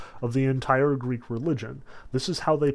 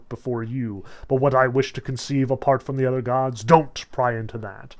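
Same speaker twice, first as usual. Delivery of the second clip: grand, louder royal voice; lofty king; 5 dB louder than usual. Retold or imitated. Zeus loftily lecturing his wife Hera, grand and louder. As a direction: lecture her like a haughty king. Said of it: "in true King of the Gods magnanimous fashion".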